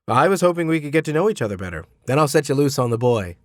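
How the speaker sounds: a hint of a welcoming father, unhurried; lightly voiced host greeting the tutor; Mr Hubbard. Mr Hubbard speaks.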